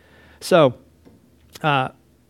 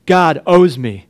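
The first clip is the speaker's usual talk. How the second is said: mock entitlement; 7 dB louder, slower than usual. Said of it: "like, chip on my shoulder".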